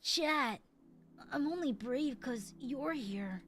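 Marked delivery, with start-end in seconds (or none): 1.3-3.4 put-on anime boy voice. Shown as a demonstration. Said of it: "anime boy voice".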